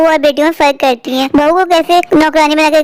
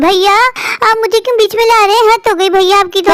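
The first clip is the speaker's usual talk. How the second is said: higher-pitched sisterly protest; indignant protest; 4 semitones higher than usual. Acted. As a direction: object indignantly to your brother. Sister protests against brother's scolding. (ऊँची आवाज़ में नाराज़गी भरा विरोध)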